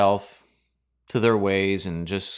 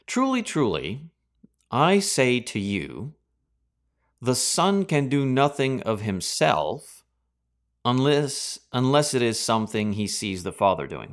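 slow, weighty reading of Jesus' words; solemn scripture reading. Acted. Preacher reading Jesus' reply to congregation, slow and solemn. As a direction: let each phrase land slowly and gravely.

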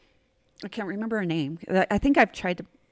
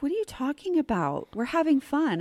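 higher innocent voice; lightly put-on airy innocence, pitched up; mock sweet; 6 semitones higher than usual. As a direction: imitate a girl playing sweet and blameless. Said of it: "when she was sweet again".

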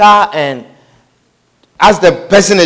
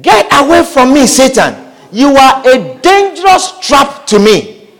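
stern rebuke; 3 semitones higher than usual. Retold or imitated. Jesus turning on Peter as Satan, stern rebuke. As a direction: cast them off with deliberate force.

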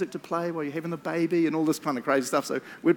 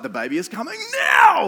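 urgent yell, louder; retold shout; 7 semitones higher, 6 dB louder than usual. Wife in labour shouting at her husband, urgent yell. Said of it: "Joseph's just like".

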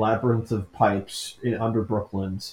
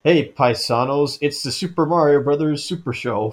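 Super Show intro; 4 semitones higher, 5 dB louder than usual. Retold or imitated. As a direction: belt it like the cartoon host. Quotes the old show's opening.

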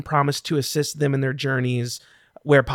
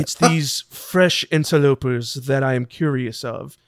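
Acted. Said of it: "you all hear a voice projected".

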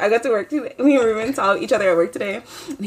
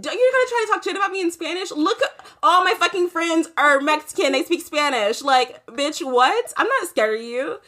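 higher-pitched retold challenge; confrontational; 5 semitones higher than usual. Retelling a standoff over Spanish trash talk, confrontational. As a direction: call them out, half laughing.

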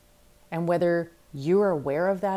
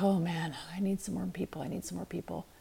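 mock fretting; 6 dB quieter than usual. Acts out own worried self-talk.

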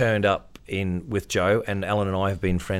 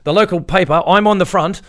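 nervous; 8 semitones higher, 9 dB louder than usual. Retold or imitated. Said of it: "I was so nervous".

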